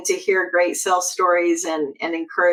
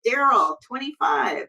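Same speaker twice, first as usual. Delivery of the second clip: higher, calling bids to the room; auctioneer; 5 semitones higher than usual. Pretend. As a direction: push the bidding up. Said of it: "fast Lori auctioneer talk".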